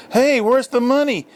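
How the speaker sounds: put-on indignant kid shout. A narrator's reading. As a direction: demand payment through the door. Kids pounding on slammed door.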